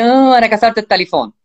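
child's tearful wail, lightly imitated; mock crying. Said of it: "ولكن يجي عم يبكي". (تقليد ولد عم يبكي)

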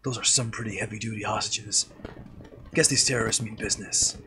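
lightly voiced Snake; a hint of the stealth soldier. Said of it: "snake voice".

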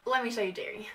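hushed whisper so the pet isn't startled. Real, not acted. Vlogger whispers before showing her new chinchilla. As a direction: breathe it, barely voiced. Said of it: "I don't know why I'm whispering".

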